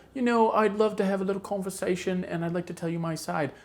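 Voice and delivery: soft, quick put-on accent; hushed, hurried Michael Myers impression. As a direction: speak quietly and quickly in an unplanned character accent. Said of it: "where that accent came from".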